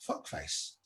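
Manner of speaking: hushed, disbelieving whisper of the insult; shocked whisper. Retold or imitated. Friend repeating the rude word, whispered in disbelief. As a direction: breathe the word out in a stunned hush.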